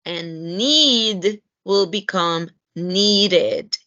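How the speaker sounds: needed with the ed sounded as its own syllable, NEED-ed; slow demo, needed as two clear syllables; teacher spelling out needed slowly; past tense ed. Shown as a demonstration. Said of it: "in past tense".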